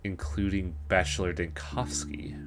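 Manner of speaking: eerie slow whisper; hushed and slow, almost voiceless. Acted. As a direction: breathe the name like a secret. Eerie line read in a whisper.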